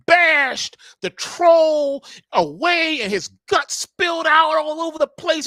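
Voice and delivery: loud, high, drawn-out gory storytelling building to a roar; menacing bedtime reading. Acted. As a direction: read it like a horror tale, bellowing. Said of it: "had she read it like".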